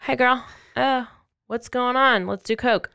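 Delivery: lightly put-on casual phone gossip; chatty phone voice. Captor chatting to her friend on the phone, lightly imitated.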